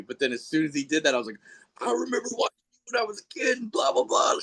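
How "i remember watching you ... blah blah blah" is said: higher, fast, excited fan rush; talking fast and high as a starstruck fan meeting his childhood hero; gushing fan. Retold or imitated. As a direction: babble like a starstruck kid. Retelling meeting childhood wrestling hero.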